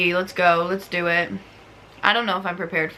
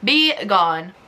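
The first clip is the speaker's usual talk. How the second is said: mock banishing, louder; 4 dB louder than usual. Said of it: "You're making me mad".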